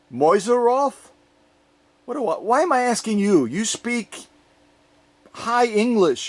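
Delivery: asking Mister Bean. Pretend. Asking the toy Mister Bean about German, put-on voice. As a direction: play a silly character being quizzed. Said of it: "Mister Bean, how do you say it?".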